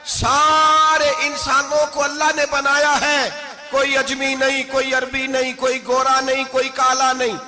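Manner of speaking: full-force preaching. Acted. Preacher proclaiming human equality to the crowd, full-force preaching. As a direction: proclaim it like a pulpit climax. Rising sermon climax.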